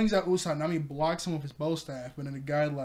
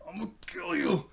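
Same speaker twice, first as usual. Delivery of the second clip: mad threat; 2 semitones higher than usual. Retold or imitated. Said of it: "really mad".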